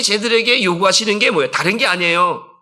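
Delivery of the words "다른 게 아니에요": ordinary delivery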